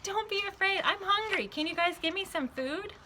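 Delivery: high, bright and lightly playful Jesus voice; Jesus cheerfully calms his frightened friends. Acted. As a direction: reassure them, then ask for food casually. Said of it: "and he said".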